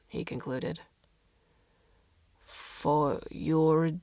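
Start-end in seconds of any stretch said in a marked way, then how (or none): 2.5-3.9 chittering alien. Acted. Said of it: "the alien chittered".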